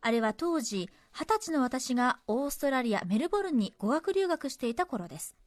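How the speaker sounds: measured story-reading delivery; letter reading. Acted. Radio host reading a cinema memory to listeners, narrated. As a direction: read the letter out as a tidy narrative.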